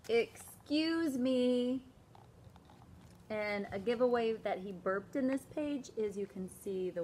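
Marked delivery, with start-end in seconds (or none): 0.1-1.8 very slow drawn-out apology; sheepish kid. Acted. David after burping, slow and sheepish. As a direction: own up sheepishly.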